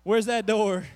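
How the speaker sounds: loud call for a way out; mock urgency. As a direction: call out as if desperate to leave. Acted moviegoer looking for exit.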